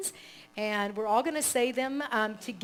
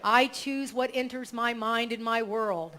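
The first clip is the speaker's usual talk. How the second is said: affirmation read; 4 dB louder than usual. Shown as a demonstration. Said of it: "So I'll say it".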